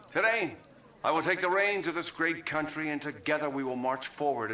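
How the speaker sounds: rousing speech. Acted. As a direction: lift the crowd as you take office. New president's rousing inauguration speech.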